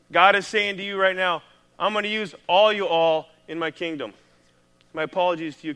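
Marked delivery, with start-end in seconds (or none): 1.8-4.1 put-on Southern accent. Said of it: "with the Southern accent there".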